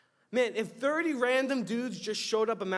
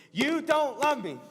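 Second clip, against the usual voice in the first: higher, louder, slow whine of hurt wife; mock whiny wife; 7 semitones higher, 6 dB louder than usual. Weeping wife accusing Samson, hammed-up whine. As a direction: ham up the wounded bride. Repeats wife's line acted.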